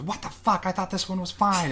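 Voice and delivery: high, startled mom voice; mom's shocked outburst. Retold or imitated. Mom reacting to the cowboy getting shot, high shocked voice. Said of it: "And she goes".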